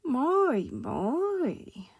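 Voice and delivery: gently amazed tramp, swooping pitch; kindly, lilting surprise; gentle. Acted. Tramp to frightened Mister Jelly, gentle wonder. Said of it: "said the tramp gently".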